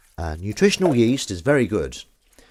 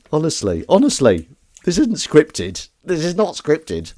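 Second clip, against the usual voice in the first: high, slow, amused insistence; laughing protest; 8 semitones higher, 8 dB louder than usual. Real, not acted. Laughing protest after joke.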